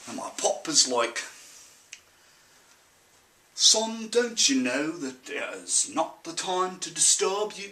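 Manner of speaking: put-on farm boy's accent, easing into the father's measured reply; thick country accent with a drawn-out, put-upon dad; put-on rural accent. Farm boy quotes Pop on news hour, in a put-on rural accent.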